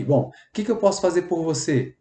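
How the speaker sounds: gentle helpful repeat of the offer. Shown as a demonstration. Empathetic worker repeating offer, gentle. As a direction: ask kindly how you can help. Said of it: "quando você é empático".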